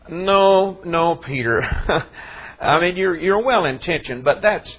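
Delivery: a kindly no, no, with a chuckle; imagined gentle correction. Pretend. Imagined Jesus correcting Peter.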